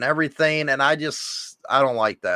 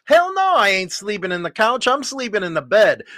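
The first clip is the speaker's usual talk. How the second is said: defiant; 2 semitones higher than usual. Pretend. Playing Hollywood's refusal.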